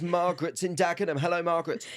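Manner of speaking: mock radio host impression; Jeremy Vine. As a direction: greet a caller like a radio presenter. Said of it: "do your Jeremy Vine impression".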